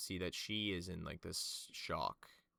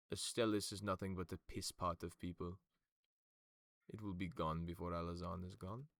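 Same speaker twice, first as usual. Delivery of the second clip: louder, hard contempt; a mildly raised angry accusation; hostile condemnation; 4 dB louder than usual. Acted. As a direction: spit out the condemnation of the enemy. Kato condemns the devil sympathizers.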